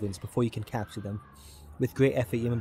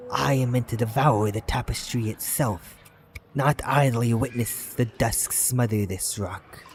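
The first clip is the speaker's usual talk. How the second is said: measured serpent voice rising to a louder demand; an ancient serpent demanding its due; serpent, building to anger; 3 dB louder, slower than usual. Acted. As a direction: let the serpent's menace build to a command. Serpent speaks, growing angrier.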